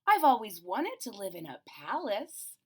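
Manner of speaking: a small bear's big dream; lightly voiced bear, wishing; dreamy little bear. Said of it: "Corduroy gasped".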